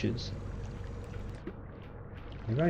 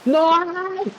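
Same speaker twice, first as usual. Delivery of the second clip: very high, loud wail; despairing no; 4 dB louder than usual. Real, not acted. Gamer losing progress, very high wailing no. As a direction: cry it out as you lose. Character dies.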